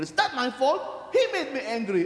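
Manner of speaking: mock excuse. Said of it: "the second word that when you get angry".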